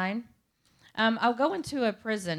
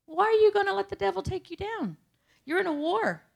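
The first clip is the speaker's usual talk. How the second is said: fiery preacher; 12 semitones higher, 6 dB louder than usual. Retold or imitated. Pastor calling his congregation to fight, booming preacher shout. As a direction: shout it like a pastor rousing the church. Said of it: "he's like".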